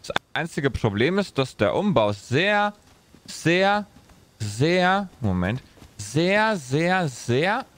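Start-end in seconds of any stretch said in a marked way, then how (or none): 2.1-7.7 stuttering glitch. Acted. NPC voice audio glitching.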